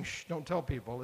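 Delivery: soft, casual shush; a gentle hush with no force behind it; mild shush. Retold or imitated. Jesus to the disciples, a soft casual shush. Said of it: "He's not just saying".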